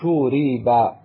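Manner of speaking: شورب said slowly as shu-ri-ba, vowels drawn out; passive form. Shown as a demonstration. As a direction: spell out شورب syllable by syllable: shu, ri, ba. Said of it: "تقول".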